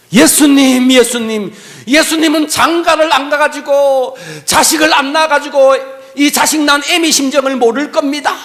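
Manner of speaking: high, loud anguished cry to Jesus; desperate wailing prayer. Retold or imitated. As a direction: cry it out like a broken mother. (목놓아 울부짖는 어머니의 기도)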